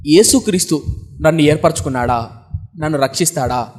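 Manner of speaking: low, subdued pleading questions; imitated tearful doubt, pitched low; retold tearful questioning. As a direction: voice a weeping girl's doubts, lightly acted. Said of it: "అని ఏడుస్తుంది మరి ఎక్కువగా".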